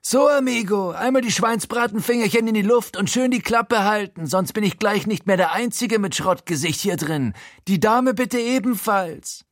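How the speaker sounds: high, raspy-free mocking crook voice; wrecked Frankie voice. A narrator's reading. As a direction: sneer it out like a battered gangster. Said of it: "fertige Frankie-Stimme ertönt".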